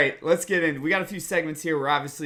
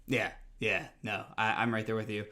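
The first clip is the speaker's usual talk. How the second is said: hungover; 4 dB quieter than usual. Real, not acted. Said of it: "if Michael and I sound a little worse for wear".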